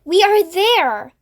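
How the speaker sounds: trying to be cheerful. A narrator's reading. Old grasshopper cheering up his frightened friends, slowly and brightly. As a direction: put on a brave cheery face. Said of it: "trying to be cheerful".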